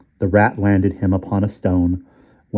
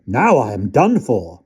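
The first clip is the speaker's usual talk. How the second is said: shocked; 3 semitones higher, 3 dB louder than usual. Acted. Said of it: "the shock brought him fast".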